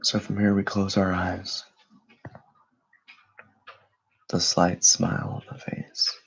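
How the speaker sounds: calm, unhurried meditation voice with long pauses; guided meditation. Acted. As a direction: guide listeners gently into stillness, leaving space between phrases.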